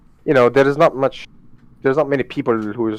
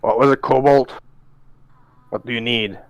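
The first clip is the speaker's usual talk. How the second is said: draconic voice. Acted. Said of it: "That's my dracon-, like, draconic voice".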